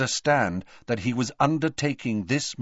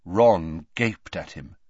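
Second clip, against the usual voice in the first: ordinary delivery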